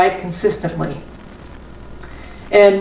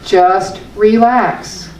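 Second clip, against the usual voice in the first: drawn-out, soothing "relax"; slow relax; much slower than usual. Shown as a demonstration. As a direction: let "Just relax" melt slowly. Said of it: "I use this".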